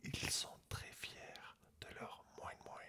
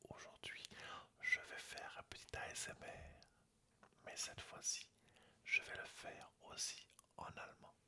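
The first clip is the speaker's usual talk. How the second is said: ASMR whisper. Real, not acted. Whispering a German lesson to ASMR viewers. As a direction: whisper close to the mic throughout.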